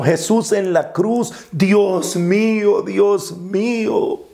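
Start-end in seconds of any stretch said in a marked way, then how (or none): 1.5-4.2 slow, stretched-out Dios mío; drawn-out cry. Acted. Jesús en la cruz clamando, slow and drawn out. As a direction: let each Dios mío hang slowly. Preacher slowly voices Christ's cry.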